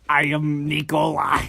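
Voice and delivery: put-on Russian accent. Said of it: "Russian accent".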